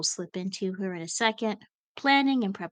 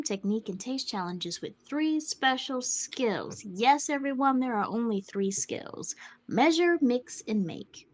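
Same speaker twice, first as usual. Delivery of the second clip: announcer voice. Pretend. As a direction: show announcer reading the pitch. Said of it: "I'm gonna read this in my best announcer voice".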